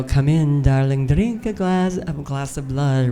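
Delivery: a hint of a slow, low vampire purr; lightly voiced old-school vampire, unhurried; classic vampire hostess. The vampire hostess she would have played, lightly and slowly voiced. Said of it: "doing the".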